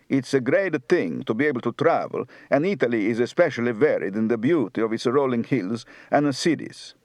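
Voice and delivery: light Neapolitan Sicilian Italian accent; southern Italian accent. Shown as a demonstration. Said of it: "Southern, Neapolitan, Sicilian".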